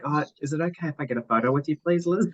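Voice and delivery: playfully imitating her asking politely for the photo; eager request. Liz's teammate imitated asking Liz for a photo, eager and quick. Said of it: "she's like".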